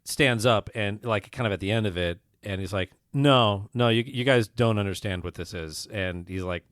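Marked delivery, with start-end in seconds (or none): 3.1-5.9 emphatic correction. Retold or imitated. Retold man corrects the audience emphatically.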